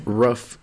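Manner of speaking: "Rough" with a short uh, for roof; regional "roof". Shown as a demonstration. Echoing the regional word, short-vowelled "Rough". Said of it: "they say rough".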